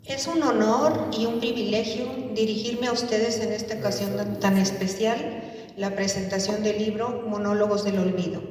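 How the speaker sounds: measured formal address with lifted phrase openings; formal presentation. Acted. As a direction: read out a ceremonial book introduction. Reads formal book introduction.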